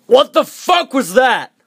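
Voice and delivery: high, shocked disgust after a sip. Real, not acted. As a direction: recoil from a nasty taste. Reacts to tasting the drink.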